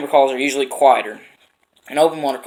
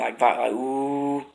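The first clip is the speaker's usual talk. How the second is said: vibrating ooh; much slower than usual. Shown as a demonstration. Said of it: "vibrate your mouth".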